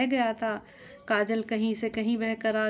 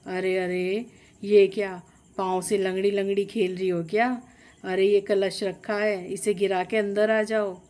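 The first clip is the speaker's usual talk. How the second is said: angry scolding. Acted. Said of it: "ये देखकर कौशल्या गुस्से में बोली".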